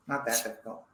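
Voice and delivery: laughing. Real, not acted. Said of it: "Oh, not that difficult".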